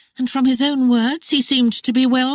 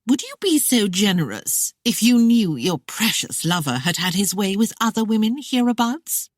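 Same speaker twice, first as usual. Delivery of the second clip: smirking taunt; 5 semitones higher than usual. Acted. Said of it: "she smirked".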